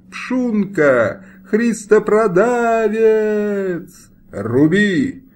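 high, loud furious yell, dragging Христопродавец out slowly; angry shout. A narrator's reading. Nobleman yells at the executioner to strike, furious shout. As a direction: bark the order to strike with contempt. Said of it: "окрик Шляхтича".

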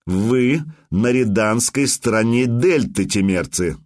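words squeezed out slowly and distinctly; slow and clear. Acted. Customs officer to Temerians, slow and deliberate. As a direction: spell it out, calm and unhurried. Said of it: "цедил слова медленно и чётко".

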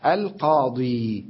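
القاضي drawn out slowly with a long ya; slow demo of القاضي; ya kept. Shown as a demonstration. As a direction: hold the ya in القاضي. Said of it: "يكون الياء هي الأولى".

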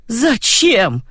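high, groaning cry of dismay; moaning. Acted. Grandma Roza sees the shaved grandson, moaning. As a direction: moan the word out in despair. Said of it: "простонала она".

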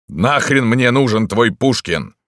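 loud, high, slow yell; indignant shout back. A narrator's reading. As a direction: yell a defiant retort. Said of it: "закричал в ответ Дантес".

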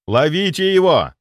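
loud yell to catch the falling body. Acted. Narrator yelling at the others to catch the body. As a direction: shout it as it tumbles away. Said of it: "заорал я".

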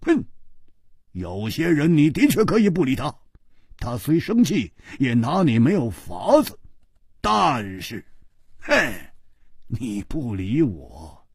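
sneering, contemptuous warning; cold sneer. Acted. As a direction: scoff at the one ignoring you. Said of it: "胡铁花冷笑着说".

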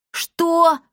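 sharp, high indignant what. A narrator's reading. Boy protests the girls' doubt, indignant and high. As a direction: bristle at the insult. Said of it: "возмутился Пима".

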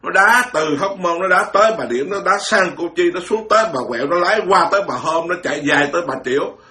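hammed-up imitation of a showy nun's twisting mouth; mocking affected nun. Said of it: "nó giả vào cái miệng nó vậy nè".

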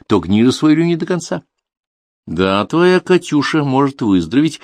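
put-on stern old woman, rising; old junk dealer voice. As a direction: lay down the price like a sly crone.

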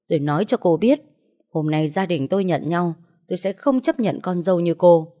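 mother refusing her son's bride; angry threat. Acted. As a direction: threaten the bride, then scream the curse.

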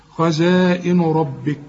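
خزائن ربك slow, long "aa", thick r; madd and heavy ra. Shown as a demonstration. Teacher recites the phrase as model, madd and heavy ra. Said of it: "كل راء مفتوحة احنا قلنا تفخم".

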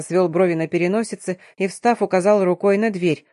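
usual speaking voice

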